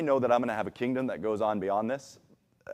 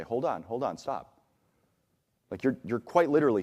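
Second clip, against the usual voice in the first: calm interruption; 2 semitones lower than usual. Retold or imitated. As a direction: ease a spiraling friend to a stop. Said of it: "derail it completely and say".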